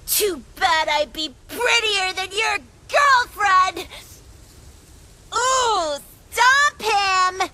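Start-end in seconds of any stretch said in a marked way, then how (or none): 0.1-3.9 tearful retort. Acted. Fawn snaps back tearfully.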